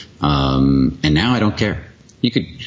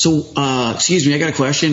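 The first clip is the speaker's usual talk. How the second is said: mock-polite question in a much higher voice; fake innocent troll; 10 semitones higher than usual. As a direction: play the innocent newcomer, sweetly baiting. Friend trolling animal-lovers forum.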